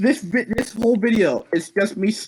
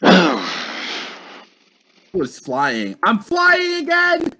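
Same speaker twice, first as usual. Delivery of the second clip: excited; slower than usual. Real, not acted. Discovers he can fly.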